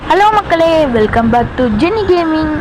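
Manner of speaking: lightly mimicked YouTuber greeting, lifted at the start; a hint of a vlogger's intro voice; Jenny Gaming intro imitation. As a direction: copy a gamer's channel intro. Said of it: "எப்படிப்பா, voice சூப்பரா இருந்துச்சா?".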